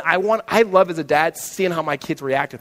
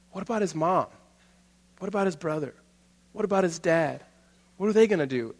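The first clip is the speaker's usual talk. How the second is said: put-on weeping child; 2 semitones higher, 6 dB quieter than usual. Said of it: "he's just weeping".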